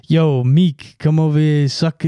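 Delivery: half-hearted impression of a black Joker accent; cringe black Joker accent. Riffing reluctantly on a rapper as Joker, mock black accent. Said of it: "do a cringe black Joker".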